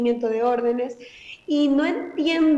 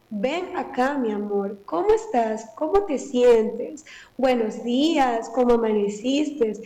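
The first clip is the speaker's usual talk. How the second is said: put-on tender to a child; slower than usual. Shown as a demonstration. Mother greets her small child kindly in the morning, tender and slow. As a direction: greet the child gently, with love. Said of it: "yo le puedo hablar adecuadamente y con cariño".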